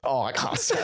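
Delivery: laughing, won't give the name; laughing evasively. Real, not acted. Dodging the friend's question, laughing. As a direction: laugh it off and dodge.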